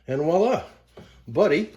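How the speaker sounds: high, loud voila; excited reveal. Real, not acted. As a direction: show it off with a flourish. Proud reveal of cleaned vacuum.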